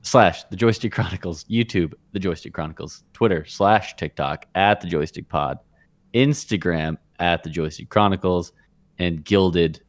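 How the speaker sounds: flat robot voice reading a list; monotone robotic list reading. Real, not acted. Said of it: "You read that like a robot".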